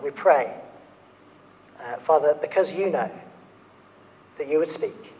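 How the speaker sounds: prayer. Real, not acted. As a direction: pray gently and sincerely to God. Leads prayer before sermon.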